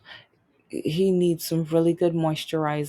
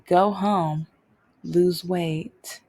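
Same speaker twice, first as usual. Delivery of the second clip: smug dismissal; much slower than usual. Retold or imitated. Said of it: "He had that smug smirk".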